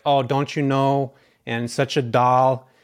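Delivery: slow, sing-song Fargo accent imitation; quoting a sweet Fargo lady in a mild Minnesota accent. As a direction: lightly put on a Midwestern nurse's Fargo lilt. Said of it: "where's this accent?".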